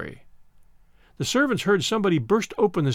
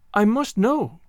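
sobbing; 5 semitones higher, 3 dB louder, slower than usual. Acted. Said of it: "Tessa sobbed".

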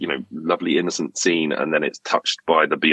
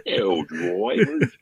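put-on drawn-out, higher Dick Van Dyke accent through laughter; comic Dick Van Dyke accent, very slow; mock Dick Van Dyke accent; 13 semitones higher, much slower than usual. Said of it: "I don't remember Dick Van Dyke being in Hell Drivers".

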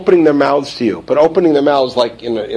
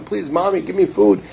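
put-on pleading child; 3 semitones higher, 4 dB quieter than usual. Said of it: "They're crying".

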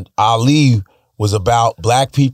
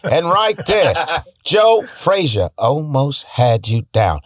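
Howard Cosell impression; 2 semitones lower, slower than usual. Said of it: "I was like".

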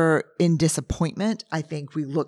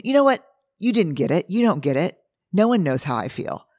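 bitter sympathy seeker; 3 semitones higher than usual. Retold or imitated. Imitating herself complaining to Steve, bitter outburst. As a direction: burst out, then sulk that nobody gets it.

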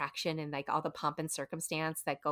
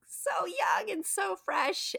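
awed whisper; 13 semitones higher, much slower than usual. Real, not acted. Gushing about young animators.

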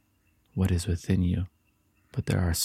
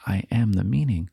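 confident declaration of self; with your chest. Shown as a demonstration. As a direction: say it out full-voiced and proud. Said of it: "Say it with your chest".

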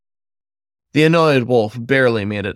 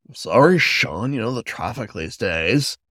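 joking. Acted. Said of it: "Elijah joked with a shrug".

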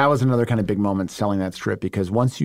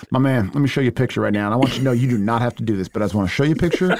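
fast eager pitch; much faster than usual. Retold or imitated. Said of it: "he's like".

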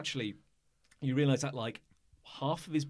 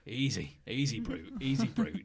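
self-calming mutter. Acted. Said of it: "calm himself down".

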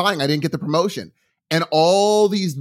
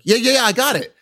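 mock eager husband; 8 semitones higher than usual. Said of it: "He's like".

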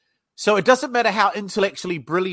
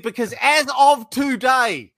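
retold anger; 5 semitones higher, 4 dB louder, slower than usual.

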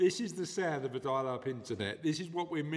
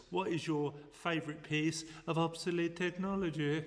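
lightly put-on mad scientist voice; 3 semitones higher than usual. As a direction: read it like a mad scientist, lingering on words. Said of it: "sound like a mad scientist".

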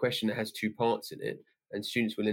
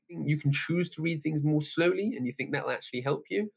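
sceptical teacher; 5 semitones higher than usual. Retold or imitated. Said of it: "I'm like".

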